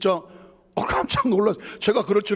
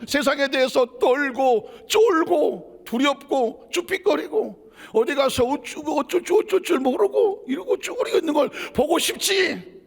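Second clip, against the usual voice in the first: mocking cowering; 7 semitones higher, slower than usual. Preacher mimics cowering people.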